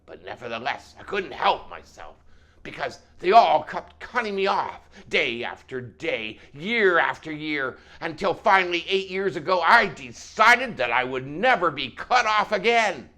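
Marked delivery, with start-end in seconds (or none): 2.6-13.1 building to a loud, high vow; mounting trucker outrage; animated, louder rant. Acted. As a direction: grow more worked up with every phrase. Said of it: "The trucker became even more animated and louder the longer he talked".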